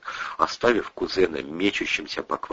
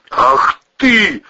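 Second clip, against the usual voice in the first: high, loud enraged outburst; boiling over; 8 dB louder than usual. Acted. Cousin shoved by the wife, loud enraged outburst. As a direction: explode with rage. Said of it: "вскипел Ковторанг".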